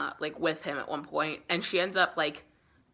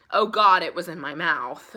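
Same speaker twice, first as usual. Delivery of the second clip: mock dramatic Mina; 7 dB louder than usual. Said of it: "she goes".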